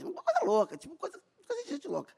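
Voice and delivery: high, breaking into laugh; overwhelmed giggle; half laugh half sob; laughing tearfully. Real, not acted. Laughing and crying.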